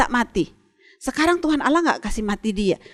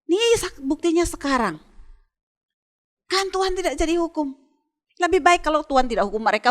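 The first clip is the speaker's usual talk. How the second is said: voiced higher, an irritated prophet grumbling to God; a hint of a petulant, fed-up Jonah; annoyed Jonah complaining; 5 semitones higher than usual. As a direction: grumble it like a sulking prophet who wants to die. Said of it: "Yunus yang kesal".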